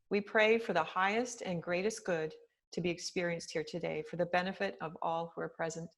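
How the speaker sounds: measured prayer voice with long pauses; prayer reading. Acted. Meditation teacher opens class with a written prayer, measured reading. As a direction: read the blessing aloud, phrase by phrase, unhurried.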